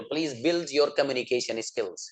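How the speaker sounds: very slow, every word spelled out for learners; slow model sentence. Shown as a demonstration. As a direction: say it slowly so students can repeat. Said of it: "teacher models English sentence". (बहुत धीरे, साफ़ बोलकर)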